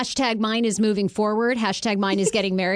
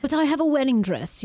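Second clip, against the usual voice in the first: lightly put-on British accent; playful fake Brit; mock British accent; 4 semitones higher than usual. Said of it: "I'm talking British because".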